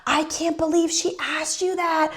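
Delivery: laughing disbelief. Retold or imitated. Him in the car after fooling the woman, imitated laughing disbelief. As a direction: imitate someone gleefully laughing it off. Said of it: "Dan actually starts laughing".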